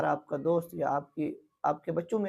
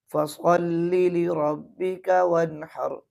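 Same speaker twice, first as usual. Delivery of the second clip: slow chanted recitation; slow tajweed chanting; Quranic recitation; 4 dB louder, much slower than usual. Shown as a demonstration. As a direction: recite the verse slowly and melodically. Recites verse correctly.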